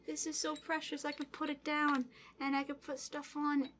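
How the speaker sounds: real tender, tearful appreciation; close to tears. Real, not acted. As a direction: speak softly while holding tears back. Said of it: "I'm going to cry".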